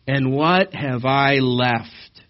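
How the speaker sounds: slow self-pitying wail; milk the self-pity; mock pitiful lament. Micah whining to the Danites about his lost gods, hammed-up pity. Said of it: "Isn't that pitiful?".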